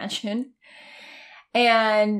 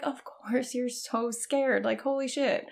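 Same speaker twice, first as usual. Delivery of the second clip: tender self-comfort; 3 semitones higher than usual. Retold or imitated. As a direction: comfort yourself like hugging a scared friend. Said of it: "wanted to love on myself and hug myself".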